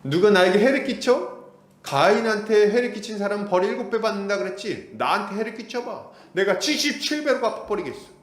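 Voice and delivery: preacher acting out a vengeful boast; arrogant threat. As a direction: taunt like a proud avenger. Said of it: "이렇게 이야기를 하고 있는 거죠".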